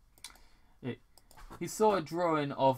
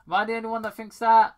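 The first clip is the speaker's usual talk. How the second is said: 1 emphatic question; 8 semitones higher, 10 dB louder, much faster than usual. Real, not acted. Reader's rhetorical challenge.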